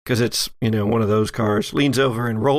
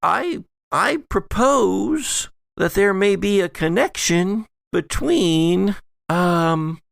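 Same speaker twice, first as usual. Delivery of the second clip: posh lady voice; 6 semitones higher than usual. Acted. GM voices Allison, higher.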